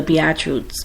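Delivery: "Beatitudes" slurred short, like "be-at-roots"; slurred mispronunciation. Real, not acted. Host stumbling over the title, "Beatitudes" mispronounced as "be-at-roots". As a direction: swallow a syllable in "Beatitudes". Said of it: "my accents".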